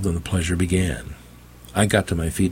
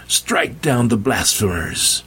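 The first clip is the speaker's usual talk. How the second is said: commanding; 4 semitones higher, slower than usual. Acted. Preacher orders attack.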